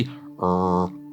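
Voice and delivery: untrilled, held American R; American English R. Shown as a demonstration. Teacher showing students the English sound, American R. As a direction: hold a smooth American R without tapping. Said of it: "inglés americano es así".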